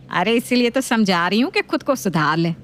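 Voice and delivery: nagging mother-in-law voice. Acted.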